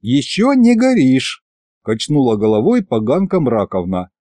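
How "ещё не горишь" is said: high, slow mocking voice; high goddess voice. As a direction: taunt him from above. Goddess mocks him.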